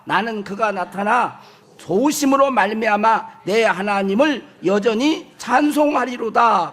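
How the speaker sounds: measured, congregational scripture reading. Acted. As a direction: read the verse aloud evenly and deliberately. (또박또박 성경 봉독조)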